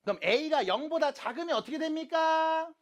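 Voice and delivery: high and loud, last syllable held long; calling out. Real, not acted. Teacher asking the class about the negative case, calling out loudly. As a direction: throw the question out to the whole room. Teacher calls out next question.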